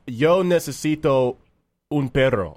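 Spanish. Pretend. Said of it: "let me speak your language real quick".

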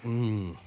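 pleased mm of tasting; savoring mm. Real, not acted. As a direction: hum with delight at the taste. Savoring food.

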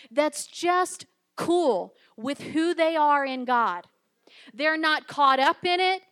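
loud, punched phrases with pauses between; emphatic preaching. Acted. Preacher on living who God made you to be, emphatic preaching. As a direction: drive each point home to the congregation.

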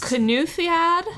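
"Cynulliad" slowly, with the double L said like T H; Welsh pronunciation. Shown as a demonstration. Podcaster teaching her co-host the Welsh word, slow and careful. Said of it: "two L's is apparently like T H".

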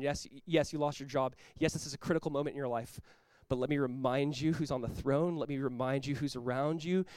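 steady them with quiet conviction; calm, understated comfort; gentle reassurance. Acted. Holy Spirit voiced reassuring the grieving.

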